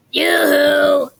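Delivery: a loud, sing-song call; calling yoo-hoo. Acted. Gritch calling across the meadow, loud yoo-hoo. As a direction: hail someone far off. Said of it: "she shouted".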